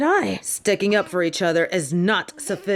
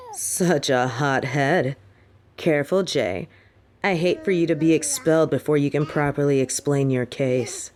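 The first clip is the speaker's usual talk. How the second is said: condescending; 6 semitones lower than usual. Acted. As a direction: talk down to the hothead, unhurried. Headmistress mocks the angry student.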